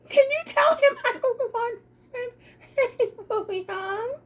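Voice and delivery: laughing request. Real, not acted. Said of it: "giggling while ordering".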